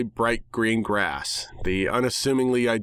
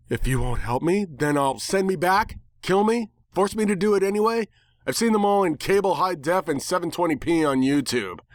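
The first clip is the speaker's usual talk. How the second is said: bird voice; 7 semitones higher than usual. Acted. Bird character threatens narrator.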